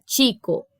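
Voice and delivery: "chico" with CH as a tch sound; Spanish "chico", opening on tch; ch as in tchê. Shown as a demonstration. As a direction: start "chico" with a crisp t+sh, almost a T. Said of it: "com esse som de quase um T".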